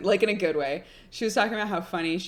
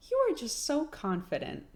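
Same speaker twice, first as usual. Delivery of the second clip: mom's voice; 9 semitones higher, 4 dB quieter than usual. Retold or imitated. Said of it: "she was like".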